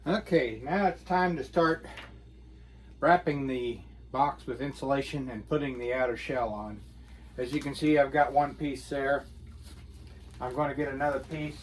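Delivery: muffled through a face mask. Real, not acted. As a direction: speak muffled, nose plugged up. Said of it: "voice sounds muffled, it's because I've got a mask on".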